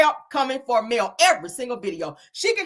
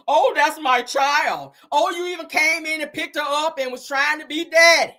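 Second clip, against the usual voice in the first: mocking Martell; 3 semitones higher than usual. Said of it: "you came back later on".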